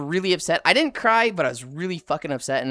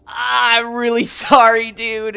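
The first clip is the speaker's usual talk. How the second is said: laughing apology; 4 semitones higher, 5 dB louder, slower than usual. Retold or imitated. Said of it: "I remember him being like".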